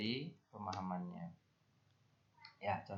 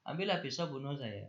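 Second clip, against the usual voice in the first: higher mock outburst of a furious parent; angry parent; 3 semitones higher than usual. Teacher quoting an angry parent to the class, mock fury. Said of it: "Orang tua kayak gitu kalau udah marah".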